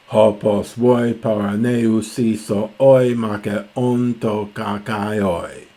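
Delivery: measured, deliberate reading of verse; reciting Homer to the class. Shown as a demonstration. Reciting the next Greek lines.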